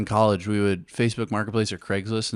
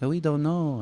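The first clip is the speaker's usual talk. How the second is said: higher-pitched mock Mexican accent; 5 semitones higher than usual. Retelling a prank-call answer about beds, Mexican accent. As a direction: imitate a puzzled seller in a Mexican accent. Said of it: "'Cause it'd be Mexican people".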